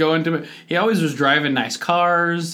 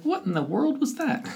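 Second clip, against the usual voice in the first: puzzled disbelief; 13 semitones higher, 4 dB quieter than usual. Retold or imitated. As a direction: lift it up, baffled and unsure. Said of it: "I was like".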